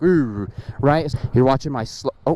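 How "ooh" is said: low drawn-out engine "ooh"; imitated wrong engine noise. Rider describing the sound the bike didn't make, low engine imitation. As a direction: mimic a motor bogging low. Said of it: "and it wasn't like".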